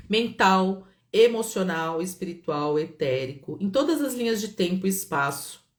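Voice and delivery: recited healing formula, listed item by item; steady incantation, easing down toward the end; guided release invocation. Acted. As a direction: lead the group through a release, then a breath.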